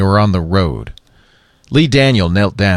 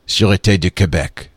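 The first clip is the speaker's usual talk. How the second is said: Sûreté du Québec said the French way, soo-ray-TAY doo kay-BEK; French pronunciation. A narrator's reading. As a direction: give Sûreté du Québec its Québécois French sounds. Cobra says it French-style.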